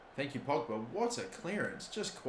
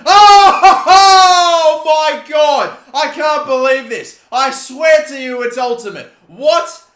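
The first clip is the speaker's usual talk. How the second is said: very high, loud laughing scream; laughing shout; 10 semitones higher, 15 dB louder, slower than usual. Real, not acted. Gamer losing it over a wild goal, laughing and shouting. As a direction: howl with laughter in disbelief.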